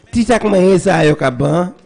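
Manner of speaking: Creole in a put-on American accent; Yankee-accented Creole. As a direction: correct yourself into mock American-accented Creole. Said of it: "Al Yankin Creole".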